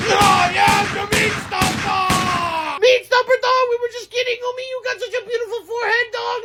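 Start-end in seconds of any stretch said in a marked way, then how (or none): 0.1-2.2 slow, drawn-out self-announcement; slow booming catchphrase. Acted. Big guy repeats his catchphrase to friends. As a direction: proclaim your name slowly.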